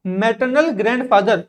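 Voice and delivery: slow model answer. Shown as a demonstration. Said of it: "pronounce करो इन चीजों को".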